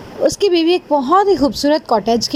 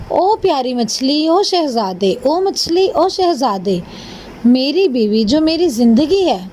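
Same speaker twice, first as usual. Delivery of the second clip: mild storybook summons, names rising and falling; lightly acted fisherman's call to the sea; calling out to fish; 2 semitones higher than usual. Fisherman asks fish for a cottage, mildly calling out. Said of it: "اس نے کچھ اس طرح سے آواز دی".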